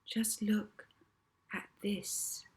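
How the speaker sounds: whispered, hushed and soft; Molly softly whispering to start the hypnosis. A narrator's reading. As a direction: whisper it to draw him in. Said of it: "her soft voice was saying".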